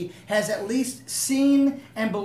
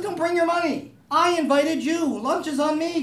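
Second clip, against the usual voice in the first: God inviting; 7 semitones higher, 5 dB louder than usual. Pretend. God voiced inviting guests.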